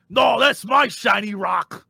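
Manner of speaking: slow shouting ogre voice. Acted. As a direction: bellow it like a dumb ogre. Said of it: "I'll be like".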